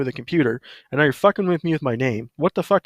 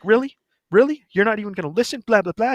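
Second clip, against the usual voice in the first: mimicking hairdresser; 9 semitones higher than usual.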